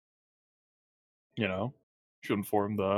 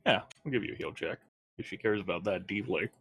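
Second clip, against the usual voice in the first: dry sarcastic offer; deadpan sarcasm, not meant; 5 dB quieter, faster than usual. Pretend. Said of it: "That was sarcasm".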